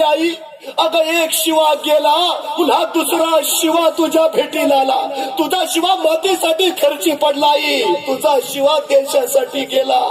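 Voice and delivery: grieving king. Acted. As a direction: speak as the raja, voice lifted and slow with grief. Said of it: "राजे म्हणले". (उंच, संथ, शोकाकुल राजाचा आवाज)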